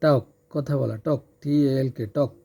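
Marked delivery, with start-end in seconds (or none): 2.2-2.3 টক, the L left unsounded before the K; silent L in টক. Shown as a demonstration. Teacher showing learners the word talk, টক with silent L. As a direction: say টক with no L sound. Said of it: "এল এর উচ্চারণ এখানে হবে না".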